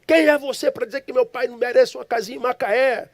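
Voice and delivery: high-pitched, outraged demand; indignant challenge. Retold or imitated. Son grabs the stranger's collar defending his father, retold outrage. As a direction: challenge him as if shaking him by the collar. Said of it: "sacudi ele".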